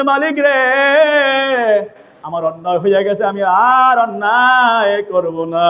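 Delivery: tearful plea. Acted. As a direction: plead with God, mock-tearful and melodic. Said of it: "কান্দিয়া চোখের পানি ফেলাইয়া বলতেছেন". (কান্নার সুরে মিনতি)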